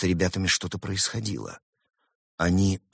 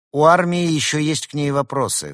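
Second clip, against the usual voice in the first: higher, louder, cold rebuff; stern, icy official answer; cold, crisp retort; 8 semitones higher, 7 dB louder than usual. A narrator's reading. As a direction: rap it out coldly and firmly. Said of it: "холодно отчеканила Пантера".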